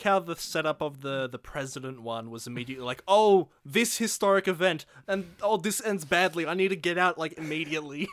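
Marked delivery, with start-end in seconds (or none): 3.1-8.1 mock panic. President character panicking.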